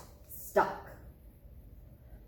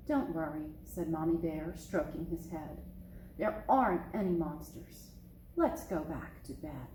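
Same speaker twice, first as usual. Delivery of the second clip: soothing mother; 5 semitones lower, 5 dB quieter than usual. Acted. Mother soothing frightened cub.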